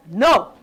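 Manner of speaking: "No" alone, punched and rounded; emphatic model syllable. Shown as a demonstration. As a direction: push out "No" as the stressed syllable. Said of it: "I wanna hear more of a no".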